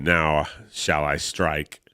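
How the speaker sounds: slow, low, hushed vampire threat; menacing vampire. Acted. Baron Blood at the window, slow low menace. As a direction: savour the moment before the kill.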